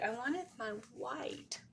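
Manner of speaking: slow, whiny complaint. Real, not acted. Whining to viewers about the missing white pen. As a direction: whine for the lost pen. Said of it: "now I'm sounding whiny".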